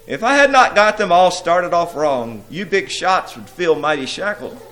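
high, loud imp boasting; cackling imp. A narrator's reading. Carnal Courtship shows up the big shots, crowing imp. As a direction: crow it with hammed-up imp glee. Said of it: "and he cackled".

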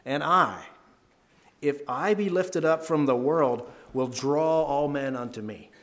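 slow, weighty scripture reading; powerful delivery. Shown as a demonstration. Teacher showing students the power of the words, slow and weighty. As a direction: let each word carry power, slowly. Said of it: "listen to the power in these words".

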